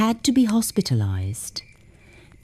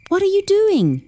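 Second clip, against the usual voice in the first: high, breathless and shocked; shocked gasp; 13 semitones higher, 3 dB louder than usual. Acted. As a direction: gasp it out in alarm. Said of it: "she gasped".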